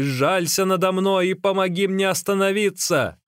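high, imploring cry. A narrator's reading. Runner begs magician for pity and help, crying out. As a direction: beg for mercy. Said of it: "крикнул Ликуй".

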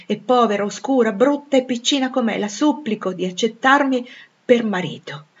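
Rochester's ardent declaration; fervent suitor. Acted. (dichiarazione d'amore accorata, in crescendo)

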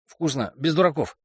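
talking through a mouthful of food; mouth full. Acted. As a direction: say it while chewing a big bite. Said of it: "с набитым ртом проговорил он".

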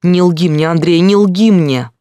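high, loud desperate demand; don't lie to me. Acted. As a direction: shout it through tears. Sister accusing brother of lying.

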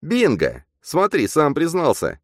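high, triumphant sidekick voice; gleeful high-pitched outburst; excited exclamation. A narrator's reading. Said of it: "воскликнул двойник".

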